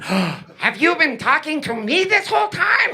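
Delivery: high, slow, incredulous shout; mock astonishment. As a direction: act as if only just noticing the person talking. Acted sudden startled realisation.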